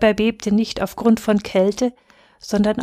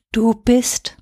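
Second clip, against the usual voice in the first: more confident. A narrator's reading. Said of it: "sagte er nochmal, zuversichtlicher".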